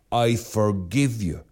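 slow, sincere forgiveness; mean every word, unhurried; slow heartfelt I forgive you; said as if meant. Retold or imitated. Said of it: "you must say it as if you mean it".

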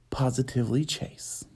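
breathy whisper of the title; whispered show name. Acted. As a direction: hush it like a secret.

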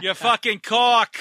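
hammed-up curse; mock angry outburst. Mock cursing, playful.

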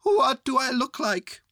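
loud, high bear call; shouted down. A narrator's reading. Bear on balloon to boy below, high shout. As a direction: call the question down from above. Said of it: "shouted Winnie the Pooh down to you".

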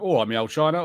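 broad, hammed-up Cockney; Cockney accent. Shown as a demonstration. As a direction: put on a caricature London Cockney. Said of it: "Cockney accent is specifically London".

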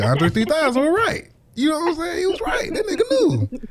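high-pitched, cracking up with laughter; laughing exclamation. Real, not acted. Joking to co-host about meeting God, cracking up. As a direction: squeal it out through real laughter.

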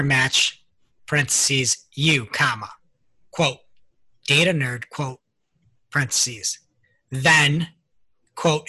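reading code aloud word by word; dictating. Shown as a demonstration. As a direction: spell out every quote and comma.

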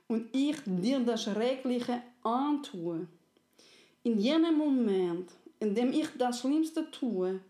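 slow, heavy earnest voice; friendly soul. Acted. Friendly soul explains the terrible deed, slow and grave. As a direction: weigh each word of a hard promise.

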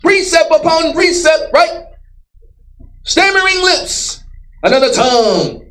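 slow, drawn-out preacher's cadence, half-shouted; preaching. Acted. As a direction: preach it slow and hard to the crowd. Preaching at full force.

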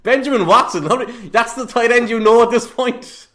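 loud, high-pitched disbelief; exasperated, amused outburst; incredulous. Real, not acted. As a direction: protest in laughing astonishment. Co-host's incredulous reaction to silly pick.

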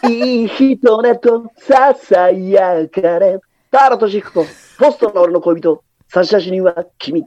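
slow crooned idol line; lightly voiced idol crooner; idol singer impression.

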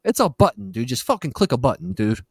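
high whiny begging; whiny pleading. Pretend. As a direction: beg them in a whiny voice. Mock pleading for clicks.

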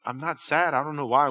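softly retold timid confession to mom; hushed, hesitant retelling. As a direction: quietly act out owning up to mom. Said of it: "when I built up the nerve".

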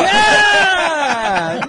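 loud cheering yeah; excited shout. Real, not acted. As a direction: whoop it like a win. Cheering a punchline.

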